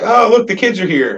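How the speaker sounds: high, mock-excited announcement; imitated welcoming relatives. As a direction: mimic relatives fussing over arriving kids. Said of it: "they'd be like".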